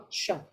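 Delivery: "sure" as the last syllable of "controversial"; English sh sound. Shown as a demonstration. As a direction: model the sh in "sure". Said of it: "Nhận nâng lưỡi lên là đã thấy khác".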